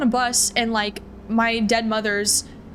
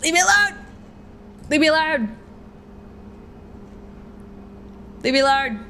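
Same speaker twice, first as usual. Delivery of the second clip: desperate yelling; 5 semitones higher than usual. Acted. Frightened player screams at the ghostly mother's voice, shouting. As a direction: scream it to drive the voice away.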